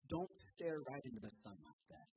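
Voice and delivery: urgent call-out. Acted. Husband calling out to his blind wife, loud and urgent. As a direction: call out to her fast before she stares too long.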